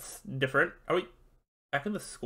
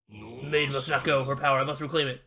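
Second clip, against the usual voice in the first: dark master. Acted. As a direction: intone it like an ancient power claiming souls. Master speaks.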